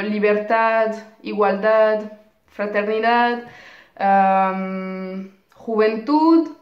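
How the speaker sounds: "libertad, igualdad, fraternidad, juventud", each stressed on its last syllable; final-syllable stress. Shown as a demonstration. Teacher gives students examples of agudas, last syllable stressed in "libertad" to "juventud". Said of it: "l'accent tonique placé sur la dernière syllabe".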